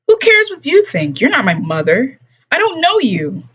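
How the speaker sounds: put-on high, scornful snap of a teen; bratty outburst. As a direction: lash out at a stranger. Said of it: "Ellie kicked".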